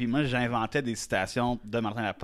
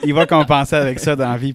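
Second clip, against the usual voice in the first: imitating therapist; 3 semitones higher, 10 dB louder than usual. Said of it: "Elle est comme".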